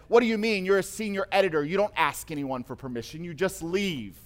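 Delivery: a father scolding his son, forceful; strong voice. Retold or imitated. Father on the phone scolding his adult son, strong and forceful. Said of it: "in a very strong voice".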